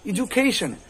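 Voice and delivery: এডুকেশন said "i-ju-KAY-shun"; English-style "ijukeishon" for এডুকেশন; correct pronunciation. Shown as a demonstration. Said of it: "উচ্চারণ আমাদের কি করতে হবে".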